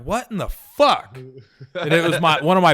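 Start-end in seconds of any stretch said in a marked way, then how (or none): 0.0-1.1 slow, higher, startled what-the; shocked outburst. Retold or imitated. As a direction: spin round and blurt it in disbelief. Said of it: "I'm like".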